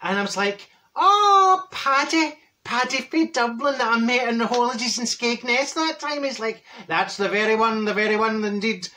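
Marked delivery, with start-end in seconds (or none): 0.9-6.2 loud, high "Oh" settling into gushing; mock-thrilled, high-pitched recognition; delighted recognition. Acted delighted recognition of old acquaintance. 6.9-8.9 lightly put-on Irish accent; mock-Irish lilt. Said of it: "He's Irish".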